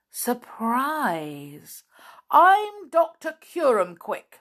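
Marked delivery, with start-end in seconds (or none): 2.3-4.4 high, loud, smiling introduction. A narrator's reading. Visitor introduces himself at the door, smiling. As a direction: introduce yourself with a slow, loud flourish. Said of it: "smiled the visitor".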